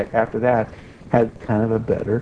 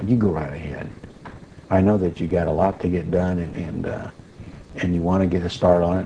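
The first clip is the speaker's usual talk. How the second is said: calm, loving reply; 5 semitones lower than usual. Retold or imitated. Answering the enraged boss's son in front of everyone, gentle and calm.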